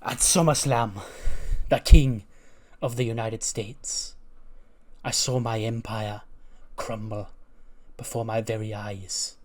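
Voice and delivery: slow, brooding villain promo, lightly voiced; a hint of a menacing wrestler promo; Neville promo. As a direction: draw it out like a bitter dethroned champion. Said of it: "he's cutting up promo. He goes".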